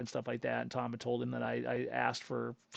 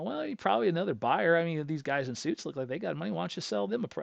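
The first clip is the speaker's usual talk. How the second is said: retold needling, pitched up to carry; pointed, meant to be overheard; 4 semitones higher than usual. Customer needling car dealer within buyers' earshot, pointedly audible. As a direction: say it for the room to overhear. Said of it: "I said this loud enough they could hear it".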